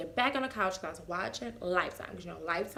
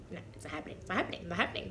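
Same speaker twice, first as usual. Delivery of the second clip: denial; 3 semitones lower, 7 dB quieter, much faster than usual. Retold or imitated. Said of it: "mentally, I was like".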